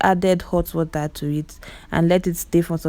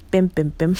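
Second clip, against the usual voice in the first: Igbo mess sound. Real, not acted. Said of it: "My Igbo accent".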